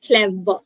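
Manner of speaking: "clever" said as two distinct beats, cle-ver; split into syllables. Shown as a demonstration. Teacher showing the two syllables, "clever" split in two. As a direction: sound out both syllables of "clever". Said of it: "It is a two syllable word".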